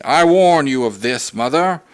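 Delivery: stern father warns his wife. Acted. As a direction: lay down the law to his wife. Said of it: "He went on sternly".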